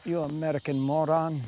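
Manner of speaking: mock Frenchman insulting an American; a cheesy French accent for a laugh; bad French accent. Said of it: "terrible French accent".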